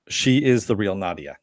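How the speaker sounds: plain, even statement; matter-of-fact. Retold or imitated. Telling Greta who is the real Nadia, matter-of-factly. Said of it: "You know, matter of factly".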